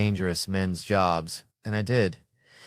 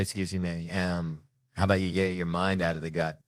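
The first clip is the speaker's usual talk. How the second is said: cool comeback. Retold or imitated. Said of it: "I've stared her back in her face".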